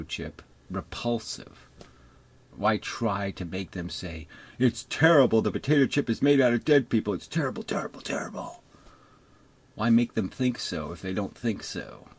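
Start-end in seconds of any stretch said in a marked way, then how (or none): 4.6-7.1 mock alarm. Mocking believers' panic. 7.1-8.6 hushed mock-horror whisper. Mocking believers' panic.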